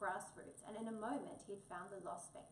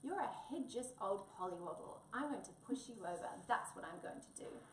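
cross growl. Acted. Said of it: "he growled".

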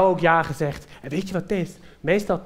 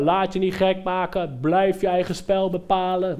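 slow, spaced-out mock coaching call; imitated calling out. John's voice in the head says stay firm, slow call. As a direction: call it slowly, like remembered advice. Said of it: "John nog wel roepen".

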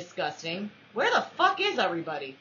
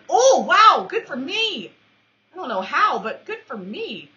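singsong excitement; 7 semitones higher, 9 dB louder than usual. Real, not acted.

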